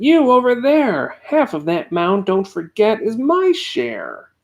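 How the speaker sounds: calling out. A narrator's reading. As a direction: call across to the bug. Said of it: "called the elephant".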